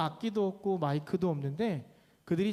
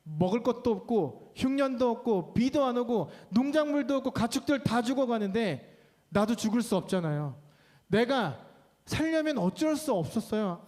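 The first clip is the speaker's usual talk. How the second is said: Naomi complaining; 4 semitones higher than usual. Acted. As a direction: pour out a hurt grievance to God. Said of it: "이렇게 했겠죠".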